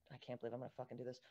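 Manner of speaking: hushed, near-silent whisper; whispered aside. Real, not acted. Player whispering to the table while walking toward vampires. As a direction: breathe it under your breath, half to yourself.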